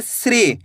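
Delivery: श्री said as one syllable, shri; teacher modelling श्री; pronunciation demo. Shown as a demonstration. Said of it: "सा का उच्चारण कैसे करेंगे".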